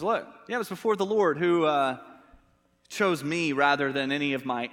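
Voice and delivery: acted comeback in a marital spat; defensive. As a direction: lightly mimic a husband on the defensive. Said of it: "He goes on the defensive".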